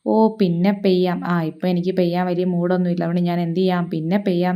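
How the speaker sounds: a cloud that can't be bothered to rain; lazy brush-off. Acted. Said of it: "ഇപ്പം മഴ പെയ്യിക്കാൻ തോന്നുന്നതിനോട് പിന്നെ പെയ്യാം".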